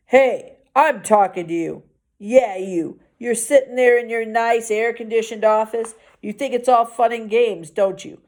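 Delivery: drunken slur, lightly voiced; a hint of a drunk man slurring; slurred. Fired drunk guard taunts the kid, lightly slurred. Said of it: "he slurred".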